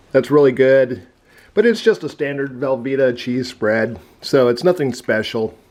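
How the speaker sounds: talking while chewing; mouth full. Real, not acted. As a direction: speak around a mouthful of food. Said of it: "Sorry for talking with my mouth full".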